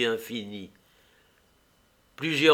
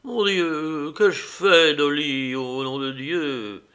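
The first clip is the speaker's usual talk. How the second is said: higher, choked voice breaking toward a sob; near sobbing; 4 semitones higher, 4 dB louder, slower than usual. Acted. Husband begging his wife, close to tears. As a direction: plead with a lump in the throat. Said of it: "un sanglot le prit à la gorge".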